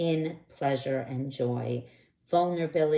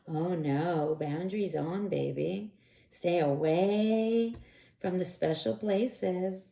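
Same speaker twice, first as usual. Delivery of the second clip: teasing; slower than usual. Retold or imitated. Retold teasing reply to partner.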